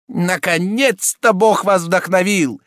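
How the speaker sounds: a breath of relief; relieved. A narrator's reading. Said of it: "со вздохом облегчения".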